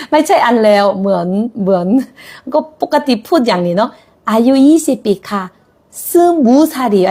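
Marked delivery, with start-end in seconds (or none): 6.1-7.1 fast, natural-speed Korean sentence; reading fast. Shown as a demonstration. Teacher reads quickly to students as in normal speech. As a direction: rattle it off at everyday speed. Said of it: "ครูอ่านเร็วเนาะ".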